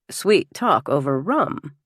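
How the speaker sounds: slow, questioning husband's echo; suspicious echo. Acted. Husband queries guest's words to his wife, slow and suspicious. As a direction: repeat it slowly, as a jealous challenge. Husband echoes it with raised brow.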